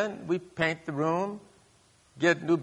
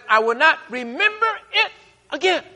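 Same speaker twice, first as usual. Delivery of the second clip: lightly voiced God; 13 semitones higher, 5 dB louder than usual. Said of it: "he says".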